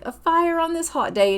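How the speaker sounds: lightly voiced son doubting the fire; mock surprise. Son questioning mom's campfire plan, mock disbelief. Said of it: "he's like".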